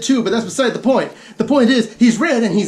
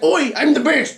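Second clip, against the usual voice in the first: lightly put-on British accent, cocky; a hint of a cheeky British teen; a touch of British swagger on "Oi"; mock British accent; 4 semitones higher than usual. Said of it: "because he's British apparently".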